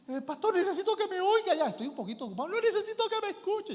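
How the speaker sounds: very high, laughing whiny plea; laughing mock caller. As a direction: send up her pleading with a laugh. Caller's rushed plea mocked.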